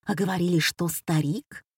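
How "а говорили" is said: plain reading voice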